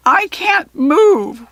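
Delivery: high, loud, slow goblin wail; trapped goblin wailing in distress. A narrator's reading. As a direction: draw out the wail. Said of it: "wailed the goblin in back".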